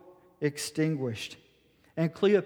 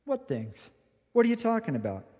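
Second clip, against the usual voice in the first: gentle kindness; 2 semitones higher, 4 dB quieter, faster than usual. Acted. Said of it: "And in kindness".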